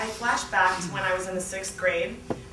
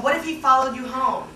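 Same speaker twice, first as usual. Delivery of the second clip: worried; 4 semitones higher, 6 dB louder than usual. Retold or imitated. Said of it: "my roommate said".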